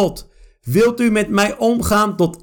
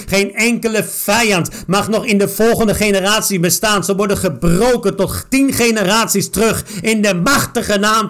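declaring each line with force; preaching-style prayer with strong stresses; fervent prayer. Real, not acted. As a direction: pray it out, commanding in Jesus' name.

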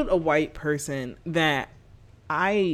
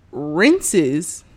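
normal talking voice

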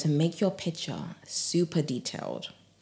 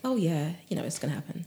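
casual shrug of a voice, trailing off softly; nonchalant; 3 dB quieter, faster than usual. Shown as a demonstration. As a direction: say it offhand, as a given. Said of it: "It's like nonchalant".

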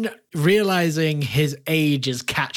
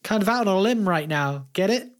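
Finn's voice; 9 semitones higher, faster than usual. Acted. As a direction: answer in the big tree's character voice. Player voices Finn.

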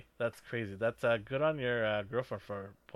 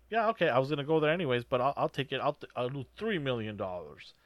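casual mercenary; 2 semitones higher, faster than usual. Retold or imitated. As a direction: rattle off the easy agreement at speed. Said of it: "And he's just like".

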